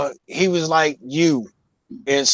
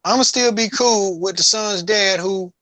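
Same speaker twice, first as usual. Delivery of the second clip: indignant dad; 8 semitones higher than usual. Retold or imitated. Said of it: "He said".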